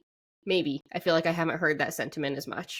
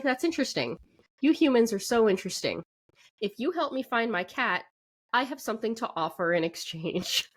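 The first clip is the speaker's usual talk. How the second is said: higher-pitched, lightly acted character voice; Power; 5 semitones higher than usual. Fiend offering a human a deal to find her cat, intrigued.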